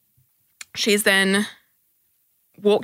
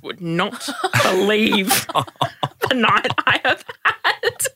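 laughing exasperation; 4 semitones higher, slower than usual. Real, not acted. Telling clients about her night.

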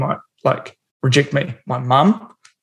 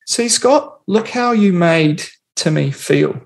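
higher, slow scolding parent, lightly voiced; mock parent; 3 semitones higher, slower than usual. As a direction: slowly lecture the kid like a patient parent. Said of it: "parent or somebody sits him down and goes".

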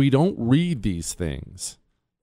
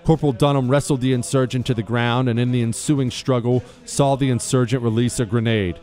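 formal, measured citation reading over music; crisp military citation. Acted. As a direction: read it like an official military honor. Reads a Medal of Honor citation.

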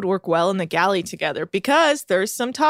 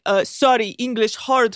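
lightly hammed-up Israeli accent; mock Israeli accent. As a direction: imitate a thick Israeli accent, halting English. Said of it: "like, a thick Israeli accent".

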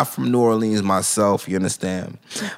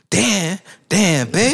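put-on New Orleans accent; 6 semitones higher, slower than usual. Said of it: "because his accent".

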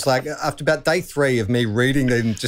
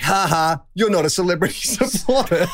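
mock taunt; 9 semitones higher than usual. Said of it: "he was like".

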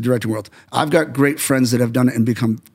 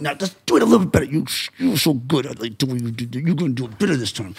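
smiling encouragement; 4 dB quieter, faster than usual. Retold or imitated. Director retelling how he coaxes someone to improve, smiling. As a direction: soften the criticism with a smile. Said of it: "I smile a little bit".

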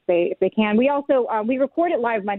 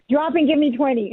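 barking drill sergeant order; drill instructor voice; 4 semitones higher than usual. Acted. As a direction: bark it like a DI. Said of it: "in my D I voice".

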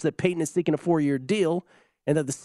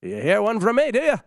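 louder, higher mock Irish accent; terrible Irish accent; 8 semitones higher, 5 dB louder than usual. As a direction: put on a bad Irish accent. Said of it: "That's my Irish accent. That's terrible".

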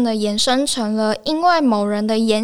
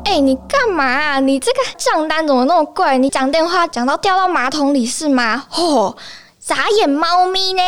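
acted scene; 4 semitones higher than usual. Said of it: "进入小剧场".

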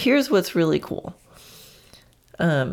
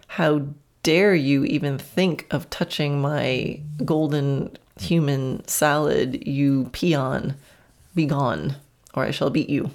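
slow, hammed-up haughty decree; joking imperiousness, drawn out word by word; mock dominant; 2 semitones lower than usual. Owner to a horse eyeing the salad, mock dominant. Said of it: "being more of a dominant attitude saying".

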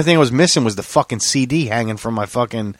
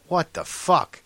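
retold indignant outburst, pitched up; upset disbelief; 6 semitones higher, slower than usual. Driver retelling his reaction to the cop, exasperated. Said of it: "I'm really upset at this point".

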